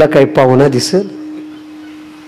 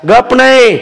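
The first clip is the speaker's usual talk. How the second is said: scolding mother-in-law; 3 semitones higher than usual. Acted.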